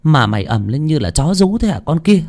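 annoyed mistress scolding, voice rising; irritated. Acted. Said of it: "thì bực mình". (giọng bực mình, gắt gỏng)

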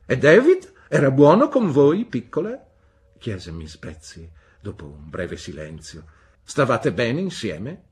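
high, loud, brusque "Bene?"; stern old aunt. A narrator's reading. Aunt Betsy demanding news from the mother, brusque. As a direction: demand an answer like a sharp old lady.

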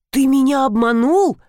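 stunned question. A narrator's reading. Wife to Dimon over the fake pills, stunned high question. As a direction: gasp it out in disbelief. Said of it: "опешила я".

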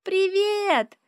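put-on high, loud little girl's greeting; excited child calling out; child's shout. A narrator's reading. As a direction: shout hello through the glass. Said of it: "кричит Ариша".

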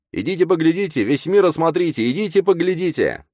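высокий громкий выкрик ярмарочного зазывалы; зазывай толпу нараспев во весь голос; громкий зазывала. A narrator's reading. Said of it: "криками зазывает народ". (громкий ярмарочный зазывала)

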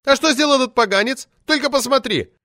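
put-on high, loud indignant shriek of an old party lady; shrill furious official lady yelling; roaring outrage. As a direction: howl it out like an enraged sabre-toothed tigress. Poetess complains.

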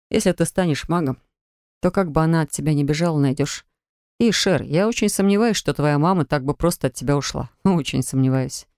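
calm her down gently; lightly voiced young healer, reassuring. (мягкий, успокаивающий голос парня)

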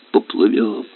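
father drifting into a wish; dreamy echo. Acted. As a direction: let it fade away. Repeated dreamily.

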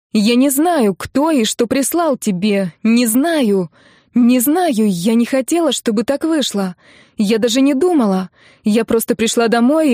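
desperate pleading. Acted. Katya desperately pleads, then cries.

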